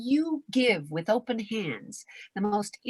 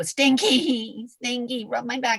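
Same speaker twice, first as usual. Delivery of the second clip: pet talk; 4 semitones higher, 3 dB louder, slower than usual. Retold or imitated. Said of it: "you go".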